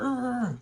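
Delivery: high, loud demonic "uhhh" noise. Shown as a demonstration. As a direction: imitate a demon with a drawn-out wordless sound. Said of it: "like a, a demon in someone".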